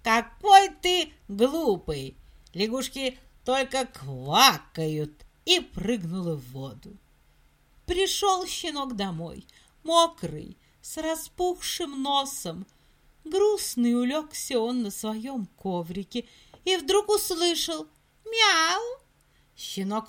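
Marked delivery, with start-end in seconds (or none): 0.0-5.2 mocking. Frog mocks puppy. 18.2-19.0 meow. Acted. Cat meows.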